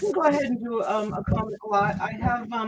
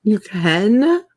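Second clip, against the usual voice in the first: talking while crunching snacks; mouth full; 8 dB louder than usual. Real, not acted. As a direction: speak through a mouthful of chips. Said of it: "What are you eating now?".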